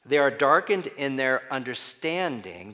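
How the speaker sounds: firm reading, "understanding" spelled out clearly; "understanding" weighted, lifting at the close; stress on understanding. Shown as a demonstration. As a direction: lean on "understanding" at the end. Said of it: "emphasize some other words".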